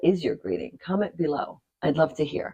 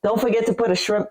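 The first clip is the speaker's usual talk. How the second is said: New Jersey accent; 5 semitones higher than usual. Shown as a demonstration. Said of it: "no, that's too New Jersey".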